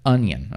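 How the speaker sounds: onion said as UN-yun, light second part; final model onion. Shown as a demonstration. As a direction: say onion cleanly, no stress on yen. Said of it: "that's how you pronounce it".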